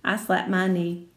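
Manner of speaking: ordinary delivery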